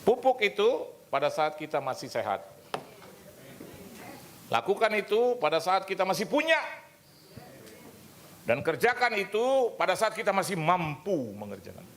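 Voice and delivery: loud, high, driving preacher's exhortation; preaching at full force. Acted. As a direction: proclaim each line to the congregation. Preaching climax. (khotbah berapi-api dengan suara keras dan tinggi)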